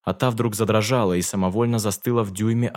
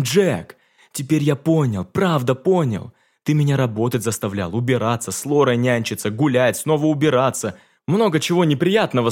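desperate plea; 4 semitones higher than usual. Acted. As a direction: pour it out, desperate to reach him. Франц desperately clings to Jack. (отчаянная громкая мольба)

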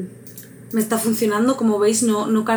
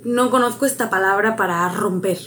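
normal talking voice

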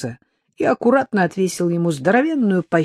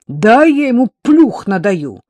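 азартно; 6 semitones higher, 8 dB louder than usual. Acted. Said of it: "азартно предложил Серёжка".

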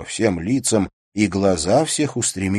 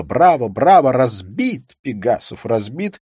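loud, high cry of triumph; gleeful exclamation; 6 semitones higher, 8 dB louder than usual. A narrator's reading. Hostess crowing at Pegasov's defeat, loud and high. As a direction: clap and crow over the beaten man. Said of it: "захлопала в ладоши, воскликнула".

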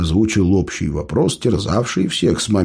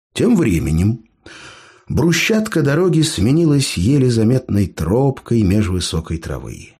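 usual speaking voice

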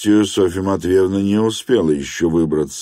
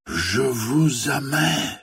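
heartfelt confession; 7 semitones higher, 4 dB quieter, much slower than usual. Acted. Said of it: "вырвалось у него наконец".

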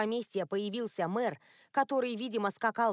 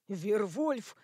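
ordinary delivery, nothing marked

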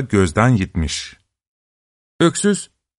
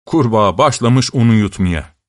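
ordinary delivery, nothing marked

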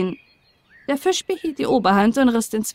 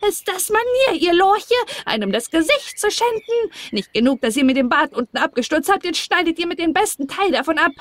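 much higher, furious dwarf screech; shrill dwarf tirade; 7 semitones higher than usual. Acted. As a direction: rail at the girls like an outraged gnome. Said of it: "schrie er sie an".

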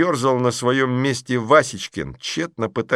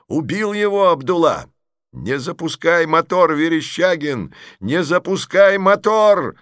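desperate warning yell; 8 semitones higher, 5 dB louder than usual. Acted. Sukhov yells warning from tank.

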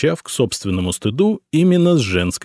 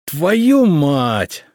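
loud growling curse, pitched up; growled curse; 8 semitones higher, 4 dB louder than usual. A narrator's reading. Emperor growls a curse at the boyar's answer, furious. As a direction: roar the curse in fury. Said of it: "зарычал Самослав".

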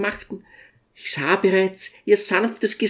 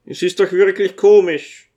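amused; 5 dB louder than usual. A narrator's reading. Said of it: "sagte der Zwerg lächelnd".

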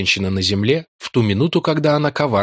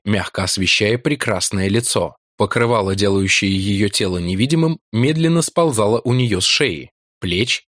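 normal talking voice

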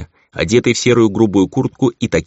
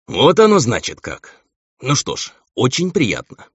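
amused; 7 semitones higher than usual. Acted. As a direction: say it with a knowing chuckle. Gal amused at the name.

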